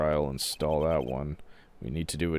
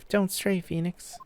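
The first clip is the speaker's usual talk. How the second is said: spirit mentor voice; 11 semitones higher than usual. Acted. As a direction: guide him gently, pitched high.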